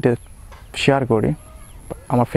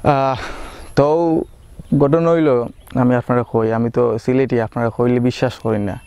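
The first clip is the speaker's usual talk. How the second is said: switching into his home Sylheti dialect; proud, chatty Sylheti speech. Shown as a demonstration. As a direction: talk it out in casual Sylheti. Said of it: "আজকের ভিডিওতে আমি সিলেটি ভাষায় কথা বলবো".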